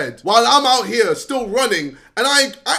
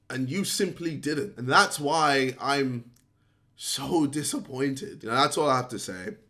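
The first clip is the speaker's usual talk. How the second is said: quiet disappointment; 10 semitones lower, 5 dB quieter than usual. Real, not acted. The speaker quietly telling Deji he is disappointed. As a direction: let the disappointment sink in.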